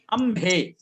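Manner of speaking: अम्हे said distinctly as अम-हे; careful अम्हे, both syllables sounded clearly; clear pronunciation demo. Shown as a demonstration. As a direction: model अम्हे crisply for the learner. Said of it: "थोड़ा सा और स्पष्ट होना चाहिए".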